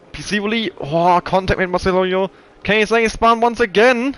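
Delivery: high, slow, urgent crash call; excited commentator. Real, not acted. Crash in the race.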